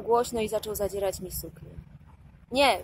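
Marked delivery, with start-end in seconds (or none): 2.5-2.8 louder cry of protest, held back from a full scream; mild scream. A narrator's reading. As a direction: cry out in refusal. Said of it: "wrzasnęłam". (stłumiony wrzask)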